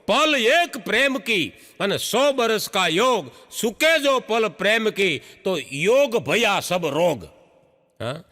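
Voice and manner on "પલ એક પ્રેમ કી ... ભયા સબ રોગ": slow, measured recitation of a doha; recited couplet. Acted. Comedian recites a doha to the audience, slow and measured. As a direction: chant the couplet slowly, like verse.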